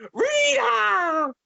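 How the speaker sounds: very high, drawn-out villain screech; Rita. Retold or imitated. Fan imitating her panel introduction, high shrieked impression. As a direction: imitate a shrieked self-introduction, falling at the end. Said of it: "when you introduced yourself, you're like".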